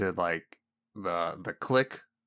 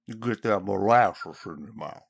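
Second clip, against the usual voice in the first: mock Southern accent. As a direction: put on a syrupy Southern accent. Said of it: "does a Southern accent".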